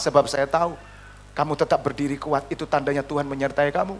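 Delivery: low, soft reassurance; lightly voiced calm pastor. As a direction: quote a pastor quietly steadying a member. Retold pastor calmly reassures him.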